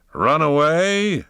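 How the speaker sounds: high, slow, loud outraged shout. Acted. Poe shouts into the wind, refusing to flee. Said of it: "shouted Poe in the wind".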